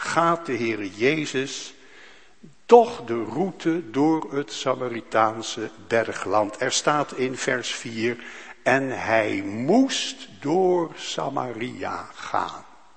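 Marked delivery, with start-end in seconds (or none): 8.6-12.6 heavy emphasis leaning hard on the word moest. Reading verse 4 aloud with deliberate stress on moest. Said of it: "Ik leg expres het accent op dat moeten".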